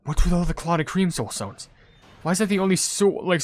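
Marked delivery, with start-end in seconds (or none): none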